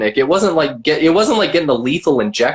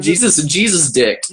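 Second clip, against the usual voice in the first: laughing. Real, not acted. Punchline repeated laughing.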